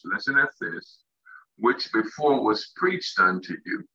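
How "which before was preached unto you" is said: slow, measured rereading of the verse; very slow reading. Shown as a demonstration. Preacher rereading Acts for close listening, very slow reading. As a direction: space the words out deliberately. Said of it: "I'm gonna read that very slow".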